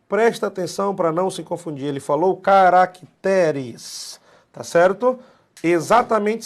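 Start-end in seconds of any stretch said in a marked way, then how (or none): 2.4-4.2 "caracteres" sílaba por sílaba, alongado; ênfase em CARACTERES. Real, not acted. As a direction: estique "caracteres" bem devagar e forte. Destaca palavra para não confundir. ("caracteres" arrastado e enfático)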